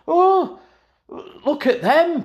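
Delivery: high mocking sing-song. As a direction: taunt them in a high voice. Mocking rival fans.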